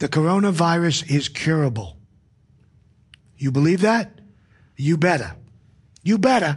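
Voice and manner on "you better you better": put-on New England accent. Discussing the coronavirus topic, putting on a new england accent. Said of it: "That's how they say it in New England".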